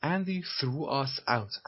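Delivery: very slow, word by word; slow repeat. Shown as a demonstration. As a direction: spell it out slowly for learners. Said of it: "repeats the clip line".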